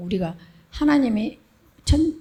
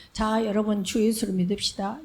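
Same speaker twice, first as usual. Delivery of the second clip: proclaiming. Shown as a demonstration. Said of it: "이렇게 선포하는 식도 있고".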